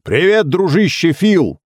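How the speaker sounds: Timulty calling up loudly to Phil; loud greeting. A narrator's reading. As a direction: call up to the projectionist. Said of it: "громко сказал".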